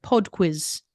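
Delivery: put-on British accent with a rounded vowel in Pod. American podcaster showing the British accent in their head, British accent. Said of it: "likes to do accents in my head".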